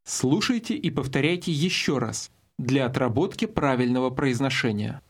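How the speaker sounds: ordinary talk, nothing marked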